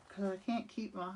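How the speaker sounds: talking around a paintbrush; brush in mouth. Real, not acted. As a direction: talk with a brush held in the teeth. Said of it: "I can't talk with a brush in my mouth".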